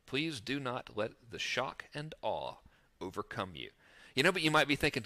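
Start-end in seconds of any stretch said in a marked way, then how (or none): 0.1-3.7 slow, mock-grave warning; deadpan a grand warning you don't mean; joking mock awe; mock solemn. Mock grand announcement of formula.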